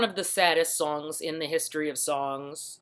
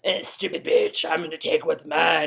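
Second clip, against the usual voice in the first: put-on posh British contempt; mock upper-crust British menace; snotty British bully. Posh customer turning on a prostitute, snotty British accent. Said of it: "snotty, upper crusty British dude".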